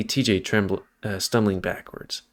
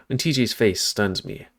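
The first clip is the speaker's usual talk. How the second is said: ordinary delivery, nothing marked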